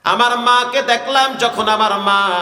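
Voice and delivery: sustained sing-song sermon narration; melodic waz preaching. Acted. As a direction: hold each phrase on a chanted note. Tuneful sermon storytelling. (সুরে সুরে ওয়াজ)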